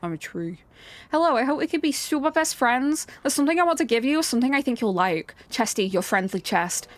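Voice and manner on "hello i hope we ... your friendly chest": sweet creepy note. Acted. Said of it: "This is just Flowey".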